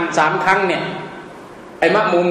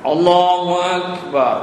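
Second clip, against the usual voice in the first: imam's takbir; 2 semitones lower than usual. Shown as a demonstration. Imitating imam's takbir in prayer.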